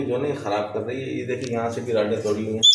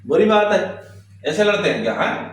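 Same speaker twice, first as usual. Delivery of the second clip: scolding a pet; 3 semitones higher than usual. Real, not acted. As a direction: reproach the ungrateful bird, pitched up. Scolding bird that she raised.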